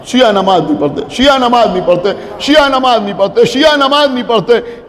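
rising, insistent repetition of शिया; repeated accusation. Retold or imitated. Preacher mimicking the repeated accusation, building insistence. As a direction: chant the slur again and again, building. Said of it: "इतना कहा".

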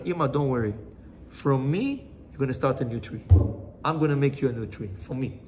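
low, calm reassurance; reassuring. Retold or imitated. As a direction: settle a worried mother, voice dropped low. Boy reassures his mother, acted.

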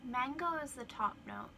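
talking down into cup; speaking into a mug. Real, not acted. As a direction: mouth over cup rim. Seen 0: Mug held just under her mouth, face bent over it while speaking.

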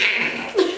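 acted straining grunt; pushing strain. Mother shows how she pushed on the toilet, straining noise. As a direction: re-enact bearing down with a strained noise. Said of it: "I was, like, pushing".

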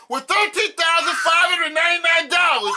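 big victorious host call; booming prize announcer. Acted. New champion announced.

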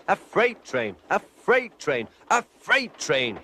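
loud, slow, disgusted grumble; grumbling. Acted. Gordon pulling dirty freight, loud slow grumble. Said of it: "he grumbled".

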